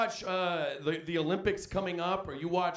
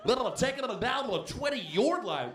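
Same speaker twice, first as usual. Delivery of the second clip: higher mock announcer drone; broadcaster again; 6 semitones higher than usual. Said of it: "They're like".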